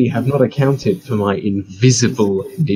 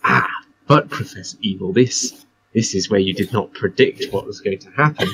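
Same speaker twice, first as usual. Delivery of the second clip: hammy stage actor. Acted. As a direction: declaim it like a restrained stage villain. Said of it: "put on her best theatrical voice".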